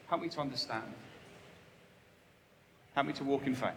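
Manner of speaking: soft, humble whispered-down prayer; quiet humble plea to the Father. Shown as a demonstration. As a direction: pray it softly, almost to yourself. Modelled humble prayer to God.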